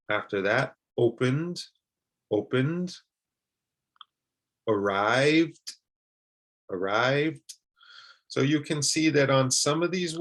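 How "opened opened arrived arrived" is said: opened and arrived with an ending between D and T. Shown as a demonstration. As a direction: end opened on a half T, half D. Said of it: "not quite a D and not quite a T".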